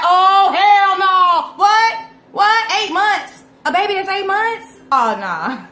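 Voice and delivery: loud, high, slow hell no; outraged disbelief. Retold or imitated. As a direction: sound off in loud outrage at the news. Outraged reaction to baby's age.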